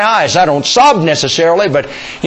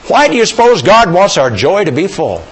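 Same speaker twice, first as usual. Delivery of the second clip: ordinary talk, nothing marked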